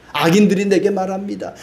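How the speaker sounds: ordinary delivery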